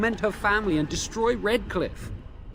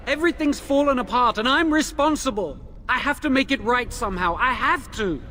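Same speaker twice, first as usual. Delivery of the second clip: higher, louder guilt-stricken pleading; desperate outburst; 7 semitones higher, 4 dB louder than usual. Acted. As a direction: spill out the panic of having ruined everything. Prisoner's guilt-ridden outburst.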